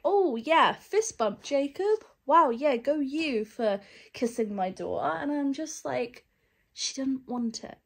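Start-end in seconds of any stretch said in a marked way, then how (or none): 0.0-5.2 mocking dad. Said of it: "her dad's like".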